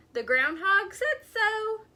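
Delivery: high, loud excited cry. A narrator's reading. Dormouse crying out while dancing in the snow. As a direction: cry it out in glee. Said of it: "the dormouse cried".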